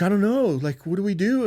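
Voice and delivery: high, loud, helpless outburst; retold panic. Mother asking dad about the seizure, retold high-pitched panic.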